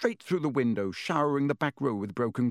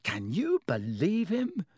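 roaring; 6 semitones higher, slower than usual. A narrator's reading. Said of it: "roared Ron".

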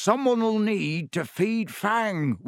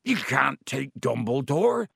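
slow, moderately raised protest; yelled; 2 semitones higher than usual. A narrator's reading. Hagrid objects to Dumbledore's removal, mildly yelling. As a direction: protest like a restrained yell. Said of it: "yelled Hagrid".

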